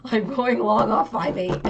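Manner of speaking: loud, slow, emphatic declaration; retold mad outburst. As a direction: replay your anger, each word hit hard. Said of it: "I actually got so mad".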